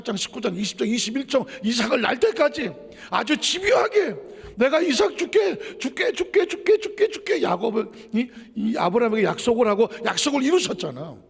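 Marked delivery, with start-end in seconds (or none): 4.6-7.4 rising higher with each 줄게; God insisting, voice climbing; insistent repeated promise. Retold or imitated. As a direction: pile up 줄게 higher and higher. Voicing God's repeated promise.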